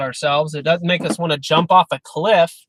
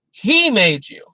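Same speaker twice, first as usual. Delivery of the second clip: "He" louder and higher; stress on HE; 5 semitones higher, 4 dB louder, slower than usual. Shown as a demonstration. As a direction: punch the word He. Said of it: "The emphasis is on him, not you".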